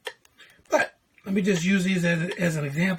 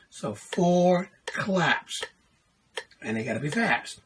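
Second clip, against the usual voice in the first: whispered, slow aside. Real, not acted. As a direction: breathe it to yourself slowly. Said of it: "whispered aside".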